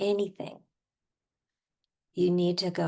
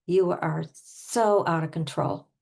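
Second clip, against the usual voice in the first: emphatic acted accusation; mildly played-up indignation; pretend anger. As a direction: lean on SO as you accuse. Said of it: "especially with the anger".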